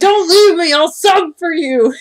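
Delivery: overdone begging parody; mocking Christian.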